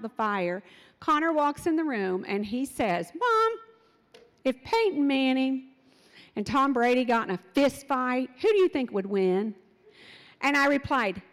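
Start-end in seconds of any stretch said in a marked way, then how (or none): 3.2-9.5 put-on a kid blurting out a random question; lightly voiced excited boy; eager child question. Son chatters during kitchen fire.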